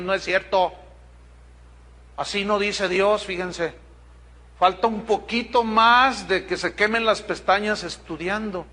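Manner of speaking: usual speaking voice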